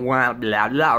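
mock unintelligible grown-up babble; wah-wah nonsense voice; Charlie Brown garbled talk. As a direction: mimic muffled, meaningless chatter. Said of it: "I'm hearing, like, Charlie Brown".

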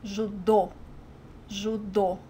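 Judô stressed on the final dô; last-syllable stress. Shown as a demonstration. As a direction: say Judô as "zhoo-DOH". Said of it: "put the emphasis on the last syllable".

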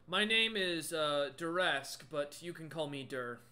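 hint of a troll introducing himself, loud at first; emphatic start, easing into a natural voice; lightly voiced troll. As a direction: introduce yourself as a polite troll shopkeeper. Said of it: "he looks at you and goes".

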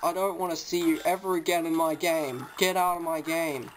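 triumphant shout. Real, not acted. Enemy defeated.

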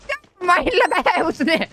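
high-pitched words through real laughter; helpless amusement breaking into the words; laughing. Real, not acted. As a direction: talk while cracking up, stretched out. Laughing at the mine trick.

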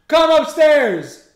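slow, drawn-out call upstairs. Real, not acted. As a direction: call it again, long and loud. Calling sister upstairs.

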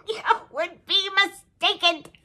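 laughing through the words, slowly. Real, not acted. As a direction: let the laugh carry the punchline. Laughs at her own joke.

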